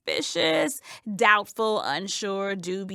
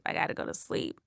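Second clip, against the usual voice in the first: whispering; 9 dB quieter, faster than usual. Acted. Anxious insomniac whispering to herself.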